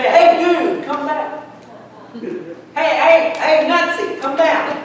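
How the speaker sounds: mock hailing someone whose name you don't know; casual calling out. Jesus imagined calling up the tree, casually hailing.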